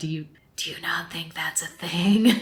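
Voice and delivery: in a whisper. Retelling a conversation, quoting her reply to him, whispering.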